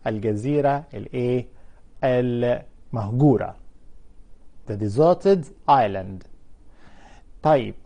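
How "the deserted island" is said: The deserted island said very slowly and clearly; slow careful model. Shown as a demonstration. Teacher models the phrase slowly for students. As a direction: spell it out slowly for the class.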